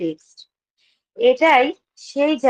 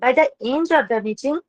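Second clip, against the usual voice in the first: formal speech; much slower than usual. Acted. Opens meeting with prepared welcome.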